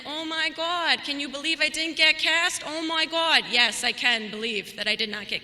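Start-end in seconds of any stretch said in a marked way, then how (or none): 0.1-3.5 put-on Jersey girl accent. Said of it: "doing my best Jersey girl accent".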